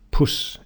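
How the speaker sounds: "puss" with a short rounded oo as in foot; northern English foot vowel. Shown as a demonstration. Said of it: "in the north".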